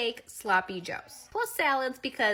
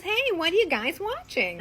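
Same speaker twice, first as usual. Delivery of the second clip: higher, louder casual question; lightly voiced husband; 8 semitones higher, 5 dB louder than usual. Husband joins wife and son on couch, lightly voiced breezy husband. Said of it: "He goes".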